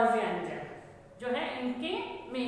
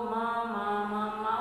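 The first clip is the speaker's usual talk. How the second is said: put-on baby saying maa; 3 semitones lower than usual. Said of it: "उसको मम्मा बोलने में बड़ी परेशानी".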